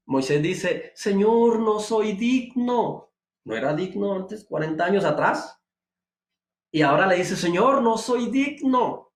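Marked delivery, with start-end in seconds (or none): 0.9-3.1 higher, slow whiny plea; pleading Moses. Acted. Preacher voicing Moses to the Lord, slow high plea. 7.4-9.1 higher, slow whiny plea; pleading Moses. Acted. Preacher voicing Moses to the Lord, slow high plea.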